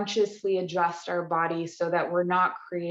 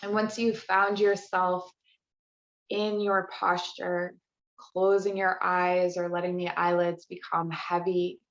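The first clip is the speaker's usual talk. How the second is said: unhurried meditation voice with long pauses; guided relaxation. Real, not acted. Yoga teacher easing the class into restorative practice, guided relaxation. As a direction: guide them gently into rest, phrase by phrase.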